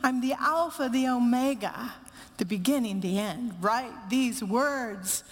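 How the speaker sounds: a measured, uplifted reading of scripture, slowing on the promises; scripture proclaimed. Acted. Pastor proclaiming the promise of heaven to the grieving congregation, uplifted and measured. Reads the Revelation promise aloud.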